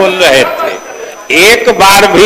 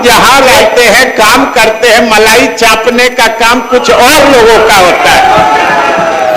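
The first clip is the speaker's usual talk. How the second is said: heated retort; 3 semitones higher than usual. Real, not acted. Heated retort in assembly debate.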